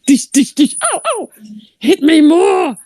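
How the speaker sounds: high playful yelps and smacks; mock dodgeball victim. Storyteller playing the pelted player, high mock yelps. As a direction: act being pelted, egging them on. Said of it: "He's just playing there like".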